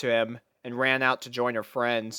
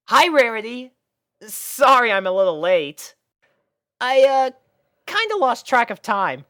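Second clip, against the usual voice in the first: put-on high, louder boyish apology; sheepish young dragon; 11 semitones higher, 6 dB louder than usual. Spike apologising to Rarity for being late, high sheepish boy voice. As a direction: late and a bit embarrassed.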